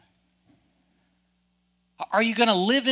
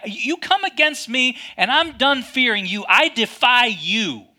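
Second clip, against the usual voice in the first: slow firm defiance. Acted. David's defiant declaration.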